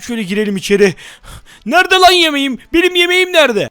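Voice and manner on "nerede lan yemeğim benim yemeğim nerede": angry husband act. Acted. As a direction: storm in, shouting for dinner. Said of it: "artık çok sinirliyim". (öfkeli bağırış)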